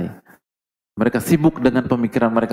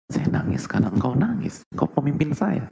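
a lightly voiced devoted wife, higher; tender wife; 7 semitones higher than usual. Devoted wife answering her husband, tender and higher.

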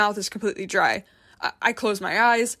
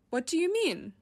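a little shrill; 8 semitones higher, 5 dB quieter than usual. A narrator's reading. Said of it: "a little more shrilly than I'd like".

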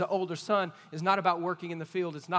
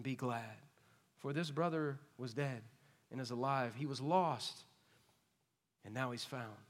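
pleading father; 3 semitones lower than usual. Acted. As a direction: coax the son back tenderly. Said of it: "this is the father".

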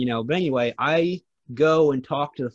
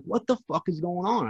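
retold cussing out; 6 semitones higher than usual. Driver in handcuffs demanding answers from the cop, retold indignant cussing. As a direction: imitate cussing someone out, pitched up. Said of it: "cussing him the fuck out".

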